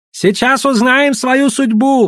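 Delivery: slow, high-pitched exclamation; exclaiming. A narrator's reading. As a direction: proclaim it loudly, drawn out. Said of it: "воскликнул Гао".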